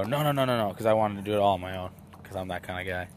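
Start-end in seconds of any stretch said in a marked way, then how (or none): 0.0-0.7 quick refusal. Retold or imitated. Hunter refusing his friend's offer to shoot the deer, loud. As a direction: wave off the offer fast and firm. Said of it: "And I go".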